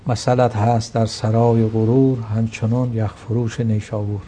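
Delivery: slow, measured verse reading; poem recitation. Acted. Guest reciting Attar's couplet to the host, slow poetic recitation. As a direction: recite the couplet slowly, savouring each word.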